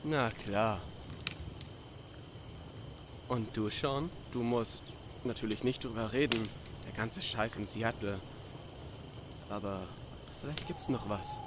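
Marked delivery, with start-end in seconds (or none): 3.3-11.4 low, soft, careful prompting; softly giving room to decline; gentle invitation. Acted. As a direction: lower your voice and gently coax. Gently invites friend to share.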